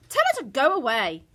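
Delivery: high, loud dismissal; indignant mother ordering her gone; affronted. A narrator's reading. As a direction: demand it sharply. Affronted mother in read quarrel.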